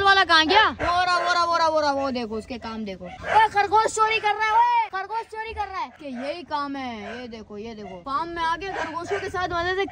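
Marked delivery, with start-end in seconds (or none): 3.0-4.5 higher, excited call about the thief. Real, not acted. Friend in a cage calls out about the rabbit thief, excited. 4.5-5.9 the same excited high call, repeated. Real, not acted. Friend in a cage shouts across the farm again, excited.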